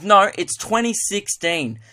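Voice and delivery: stretched-out pretend disapproval; mock indignation. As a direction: lay down the law, hammed-up offence. Offended mate shuts him down.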